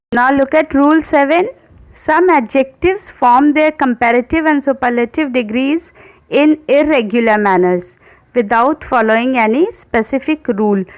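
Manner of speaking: slow, careful rule reading; slow dictation voice. Acted. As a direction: read the rule out slowly for students to copy. Reads the rule aloud slowly.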